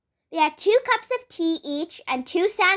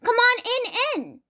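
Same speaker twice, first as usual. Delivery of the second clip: high, lilting invitation with echoed word; sing-song welcome, then echo the last word; twin's echo talk; 7 semitones higher than usual. Acted. Miss Twin invites Mister Nosy inside, high with echo. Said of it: "why she was talking like that".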